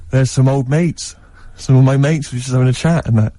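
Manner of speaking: innocent cover story. Retold or imitated. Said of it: "brilliantly, I went".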